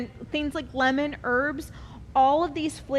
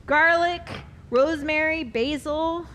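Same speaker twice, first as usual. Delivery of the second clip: hammy boisterous chef; 3 semitones higher, 3 dB louder than usual. Acted. Hammed-up listing of ingredients.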